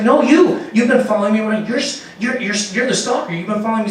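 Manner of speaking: high, urgent stammering insistence; insistent accusation. Retold or imitated. Comic insisting the other man is the stalker, high urgent voice. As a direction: stumble over the words, pressing him.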